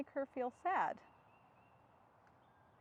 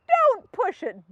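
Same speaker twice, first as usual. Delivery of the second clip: loud, slow and higher warning; character voice; 4 semitones higher, 11 dB louder, much slower than usual. Acted. The elephant refusing the fish bones, a slow loud warning. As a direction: draw it out, half joking.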